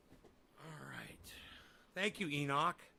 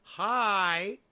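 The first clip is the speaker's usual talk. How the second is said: loud greeting; 5 semitones higher, 13 dB louder than usual. Real, not acted.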